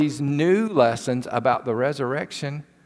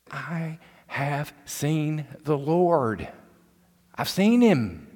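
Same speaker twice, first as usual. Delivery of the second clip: excited; slower than usual. Pretend. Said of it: "imagine her excitement".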